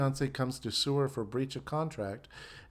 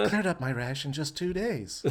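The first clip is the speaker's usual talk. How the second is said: mock ad through laughter; 3 dB quieter than usual. Mock medicated cream ad.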